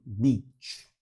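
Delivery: Beach with a smile, long ee; Beach, lips spread wide; smiling long ee. Shown as a demonstration. Teacher shows smiling for beach. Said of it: "você tem que sorrir".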